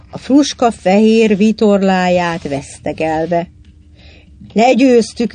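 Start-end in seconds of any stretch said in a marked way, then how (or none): 4.5-5.3 louder, higher exultant call; triumphant yell. A narrator's reading. Roger crowing over the rival boat, a raised triumphant yell. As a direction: call it out as a moderately loud victory cry. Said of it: "üvöltötte Roger".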